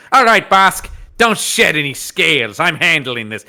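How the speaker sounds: a hint of a Peter Lorre lizard; lightly voiced sly lizard man. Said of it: "classic lizard man voice we talked about".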